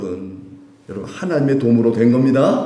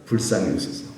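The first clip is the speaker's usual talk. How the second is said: slow recitation; 3 semitones higher than usual. Shown as a demonstration. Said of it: "무슨 기도죠?".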